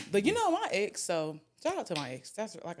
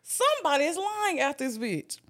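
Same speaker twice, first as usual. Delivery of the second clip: talking through laughter, high and loud; laughing; 7 semitones higher, 7 dB louder than usual. Real, not acted. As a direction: crack up mid-sentence. Laughing at the car salesman joke.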